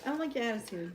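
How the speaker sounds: sassy. Pretend. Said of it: "I'm gonna sass her first".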